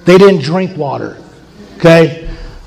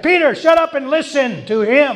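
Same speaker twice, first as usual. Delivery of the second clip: stern God rebuke; 6 semitones higher, 3 dB quieter than usual. Retold or imitated. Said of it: "I added that a little bit for emphasis".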